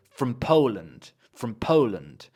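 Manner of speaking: "From Poland" joined up, stress on Poland; linked as one word. Shown as a demonstration. Teacher models the phrase for students, linked as one word. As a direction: run "From" straight into "Poland" without a gap. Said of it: "as if it's one word".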